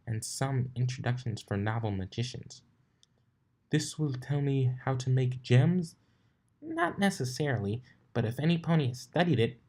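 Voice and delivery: a hint of a flustered librarian pony; brisk bookish unicorn, lightly done; Twilight voice. Twilight explains the book.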